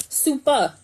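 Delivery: Super punched and cut short; a bright clipped Super; the wrong version, said short and punchy; wrong take. Shown as a demonstration. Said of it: "Not, not super".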